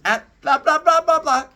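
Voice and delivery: high, loud mocking brush-off; dismissive blah blah. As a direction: wave her away with a loud sing-song. Zeus brushes Demeter off.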